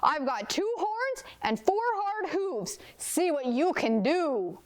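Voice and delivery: high-pitched storybook goat dare; challenging big goat. A narrator's reading. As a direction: taunt the troll as the bold goat. Big goat dares the troll.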